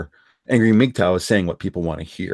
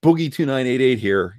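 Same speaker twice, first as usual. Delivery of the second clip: lightly imitated YouTuber greeting; Boogie intro; 3 semitones higher than usual. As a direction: quote a familiar video opener with a punchy first word. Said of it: "every single time Boogie does that".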